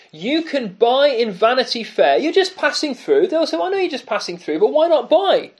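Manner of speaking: lightly voiced devil talking someone into buying; tempting devil. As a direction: persuasive tempter, voice lifted. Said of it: "the devil says".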